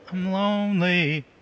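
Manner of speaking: moaned. Cutting into a heated exchange, moaning. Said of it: "That was me moaning".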